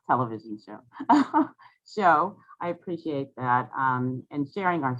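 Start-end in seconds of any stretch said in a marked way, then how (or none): 0.1-2.4 laughing through the words. Real, not acted. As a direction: breaks into a real laugh. Laughs at own repeated phrase.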